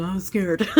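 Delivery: amused, self-mocking "I'm scared"; laughing it off; laughing at own fear. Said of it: "the moment I said".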